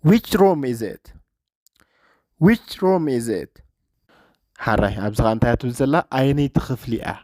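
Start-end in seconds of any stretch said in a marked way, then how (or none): 0.0-3.5 slow, careful English with stress on room; slow repeat for learners. Shown as a demonstration. Teacher repeating a clip line slowly for students, slow and careful. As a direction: say it slowly so the class can copy.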